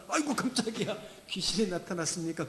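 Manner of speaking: hammed-up startled cry; mock fright. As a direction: act spooked by a ghost. (귀신 본 듯 과장되게 놀라며)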